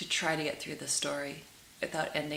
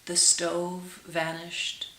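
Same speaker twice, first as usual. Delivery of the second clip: gentle, measured storytelling to listeners; tender read-aloud storytelling; storybook narration. A narrator's reading. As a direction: read it like a fairy tale by the fire. Reads fairy tale aloud.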